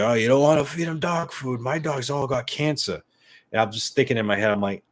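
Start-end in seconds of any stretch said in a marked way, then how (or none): 0.0-3.0 loud, high imitation of a stranger; mock a know-it-all, pitched up and loud; preachy stranger. Stranger warning owner off dog food, loud mocking voice. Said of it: "he's like".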